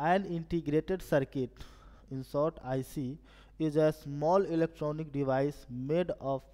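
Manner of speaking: very slow, word-by-word reading of the question. Acted. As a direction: read each English word out slowly for the class. Reads the question aloud slowly.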